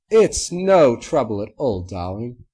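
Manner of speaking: Rarity waving off thanks; gracious Rarity. A narrator's reading. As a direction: brush off the thanks. Rarity reassures.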